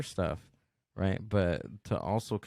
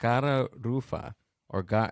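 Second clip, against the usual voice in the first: Mexican-American English accent; 2 semitones higher than usual. Reading out a fish name aloud, in a put-on Chicano accent. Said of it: "I'm gonna say it in my, uh, Chicano accent".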